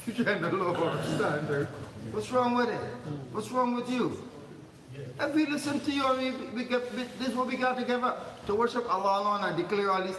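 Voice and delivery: a lightly hammed-up angry crowd; mock indignant idolaters. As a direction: voice the Quraysh complaining in mock outrage. Voicing opponents defending their idols.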